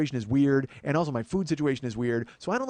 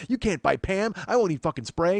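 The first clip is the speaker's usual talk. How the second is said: louder, higher mock tirade; indignant outburst; 5 semitones higher, 4 dB louder than usual. Retelling his grocery-store speech to his wife, loud mock tirade. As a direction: lay down the law in the aisle.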